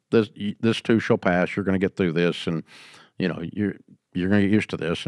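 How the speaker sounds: softly reassuring, smiling through it; calm a young mom down like a seasoned boss; reassuring old hand. Retold or imitated. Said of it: "I kinda smile as the old guy and go".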